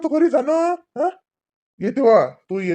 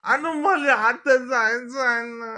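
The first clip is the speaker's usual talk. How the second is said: crying plea; 3 semitones higher, slower than usual. Acted. Boy begs to go, crying.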